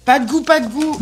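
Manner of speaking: high playful echo. Acted. Echoes in high voice.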